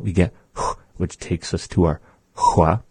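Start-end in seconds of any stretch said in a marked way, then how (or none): 0.6-0.8 breathy "h" through rounded lips. Shown as a demonstration. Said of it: "if we round it out".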